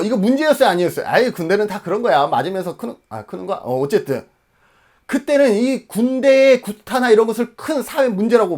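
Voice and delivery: usual speaking voice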